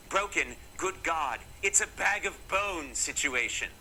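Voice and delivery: lightly put-on British accent; British doctor. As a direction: imitate an appalled British doctor. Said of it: "He was British".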